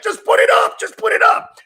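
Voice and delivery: high, hurried mock impatience; imitating impatient host. Comic mimicking host telling producer to put it up, high impatience. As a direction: mimic him nagging in a high voice. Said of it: "earlier when you're like".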